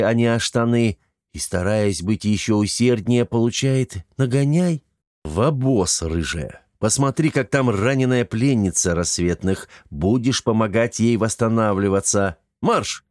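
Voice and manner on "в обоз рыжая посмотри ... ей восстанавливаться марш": loud command. Acted. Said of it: "от громкой команды Антона".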